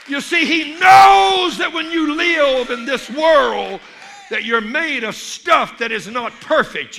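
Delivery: booming pulpit cry, slowed on the key lines; full-force preaching. Acted. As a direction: preach it hard, hammering each phrase. Preacher shouting God keeps promises.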